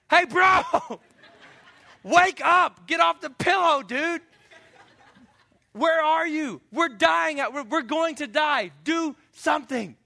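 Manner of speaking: high, loud panicked pleading; frantic disciples. Retold or imitated. Disciples yelling at sleeping Jesus during storm, frantic. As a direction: shout at him to wake up and act.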